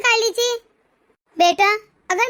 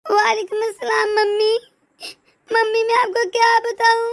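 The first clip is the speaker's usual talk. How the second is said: crying. Acted. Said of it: "जब तूने रोते हुए मुझे कॉल ना की".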